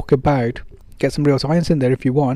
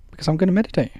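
higher, self-evident "because"; as if she should know; 5 semitones higher, much faster than usual. Shown as a demonstration. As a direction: say it like it's obvious. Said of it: "As if she should know".

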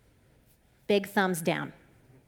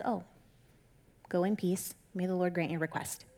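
softer, subdued acted blessing; acted sheepish blessing; 3 semitones lower, 6 dB quieter than usual. Eli blessing Hannah after his mistake, acted sheepish. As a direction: back down quietly, with a pause after the first word.

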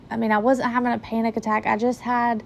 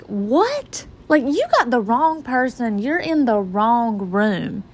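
disbelieving shock; 2 semitones higher, slower than usual. Retold or imitated. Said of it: "I'm just like".

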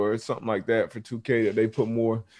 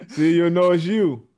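laughing; 6 semitones higher, 6 dB louder than usual. Real, not acted. Laughing at ball boy photo.

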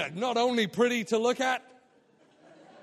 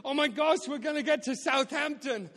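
excited; 5 semitones higher than usual. Retold or imitated. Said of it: "I was all excited".

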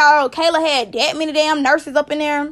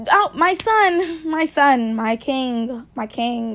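tender new mother; slower than usual. Retold or imitated. Kayla greeting her baby right after birth, tender. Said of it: "Kayla was".

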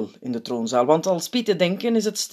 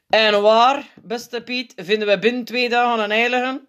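higher, testy question; korzelig; 8 semitones higher, 4 dB louder than usual. A narrator's reading. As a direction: ask it with irritated sarcasm. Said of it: "vraagt hij korzelig". (geprikkeld en korzelig)

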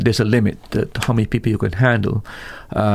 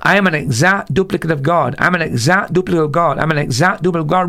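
a touch higher, pushed, speeding up on the last; imitating a yell; 5 semitones higher than usual. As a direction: chant it back like a fired-up preacher. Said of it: "He's yelling".

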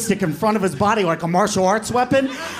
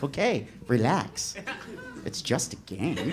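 slow, soft, lowered reply; mock soothing; 5 semitones lower, 8 dB quieter, slower than usual. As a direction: play it down slowly and softly. Mark answering brother's outburst.

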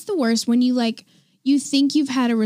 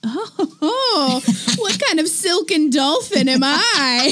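lightly posh, slow self-admiring quip; pampered silky voice; 4 semitones higher, much slower than usual. Retold or imitated. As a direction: marvel at your own softness. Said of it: "it's like".

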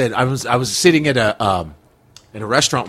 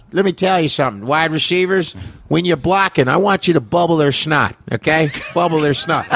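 coach impression; 2 semitones higher than usual. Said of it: "He would be like this".

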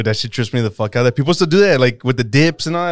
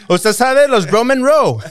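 mock nephew; 10 semitones higher, 4 dB louder, slower than usual. Playing nephew asking tia.

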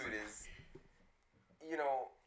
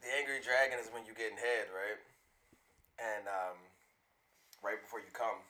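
nasty voice; 6 semitones lower than usual. Pretend. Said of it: "use your nasty voice".

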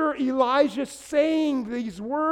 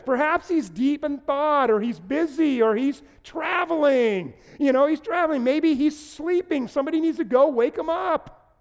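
lightly teasing, higher voice; playful mockery; 4 semitones higher than usual. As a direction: needle them like a friend. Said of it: "Elijah is totally messing with the priest".

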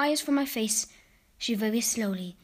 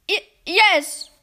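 shaken stammer; 7 semitones higher, 8 dB louder than usual. Acted. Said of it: "answered at last".

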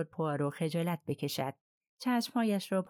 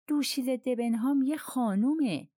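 higher and louder, with heat; 7 semitones higher, 3 dB louder than usual. A narrator's reading. Colonel defends Miss Debenham to Poirot, heated. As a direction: defend her honour warmly and hotly. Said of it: "کلونل با حرارت گفت".

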